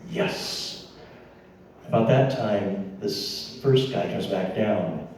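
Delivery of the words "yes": whisper. Retold or imitated. Whispered reply.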